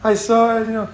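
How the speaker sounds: imitating upset girl. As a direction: put on the tearful girl's pleading pitch. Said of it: "she's like".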